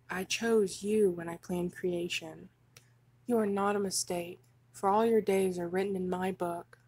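measured, even reading with pauses between sentences; devotional letter reading. Acted. God addressing a beloved child through a letter, measured devotional reading. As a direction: read it as a loving father's solemn letter.

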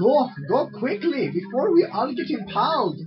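loud urgent calls; urgent shouting. Real, not acted. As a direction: hurry them on, loudly. Urging partner under spike.

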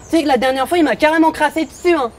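camp character with a lisp. Acted. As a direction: lisp every s sound. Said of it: "avec un léger zozotement".

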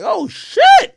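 high, loud startled "oh, shit"; shocked yelp on seeing someone famous; surprised. Retold or imitated. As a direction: blurt it out, caught off guard. Reacting to celebrity sighting.

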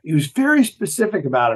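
usual speaking voice

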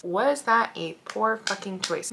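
poor fucking choice dragged out softly; slow, soft rhetorical question. Shown as a demonstration. To her viewers, asking about her choice, slow and soft. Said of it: "Maybe, maybe".

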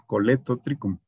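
Coletotricum con una L simple; LL como L. Shown as a demonstration. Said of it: "se pronuncia L". (Coletotricum, la doble L dicha como L)

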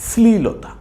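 শ্লীলতা said in one piece; শ্লীলতা as a single clear model word; joined pronunciation. Shown as a demonstration. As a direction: blend শ্লী into লতা without a pause. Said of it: "উচ্চারণটা একসাথে করব".

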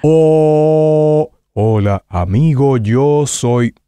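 lightly voiced cheerful panda; a hint of the eager Kung Fu Panda voice; demo Po voice. Shown as a demonstration. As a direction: show the student the light, cheerful Po. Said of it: "suena de esta manera".

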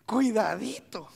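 slow, drawn-out whisper; whispered warning. Real, not acted. Preacher cautioning the congregation, whispered warning.

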